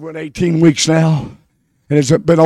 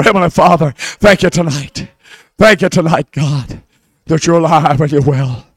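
prayer; 2 semitones lower than usual. Acted. Pastor thanking God in prayer before the church. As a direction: pray it humbly to God.

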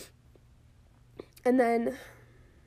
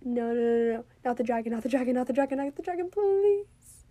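pleading. Retold or imitated. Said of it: "I was literally like".

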